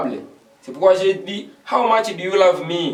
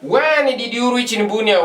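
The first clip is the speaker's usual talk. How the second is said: pitched up and punched on when; emphatic model; 6 semitones higher than usual. Shown as a demonstration. Teacher restarts the example with a raised, emphatic question. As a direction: lift it and stress when. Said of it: "forgive me for that".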